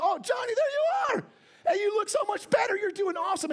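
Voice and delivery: mock overjoyed cry to a child; delighted shout. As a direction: cheer the boy as if he just got well. Greeting the healed son on FaceTime.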